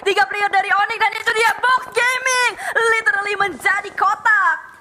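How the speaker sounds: fast, rising hype call; excited play-by-play. Real, not acted. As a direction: call the fight fast and hyped. Live fight call, rising action.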